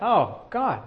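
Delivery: high, delighted little prayer of thanks; grateful surprise. Retold or imitated. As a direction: replay a sudden happy thanks to God. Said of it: "I was like".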